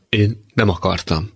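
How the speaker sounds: understated tearful voice; a subdued hint of sobbing. (visszafogottan, sírósan)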